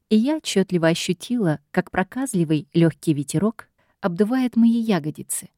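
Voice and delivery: plain reading voice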